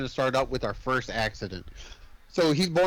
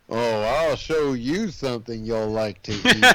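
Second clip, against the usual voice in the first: creepy perv; 2 semitones lower than usual. Retold or imitated. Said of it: "He's all perving already on her".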